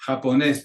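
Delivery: Japonés with the weight on NÉS; ja-po-NÉS, end syllable stressed; stress on last syllable. Shown as a demonstration. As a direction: land firmly on the final syllable of Japonés. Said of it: "the emphasis on that last syllable".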